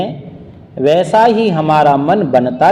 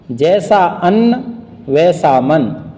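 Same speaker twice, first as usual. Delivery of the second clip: slow, measured couplet recital; deliberate, spaced-out verse delivery; proverb recitation; slower than usual. A narrator's reading. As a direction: recite the saying slowly, line by line.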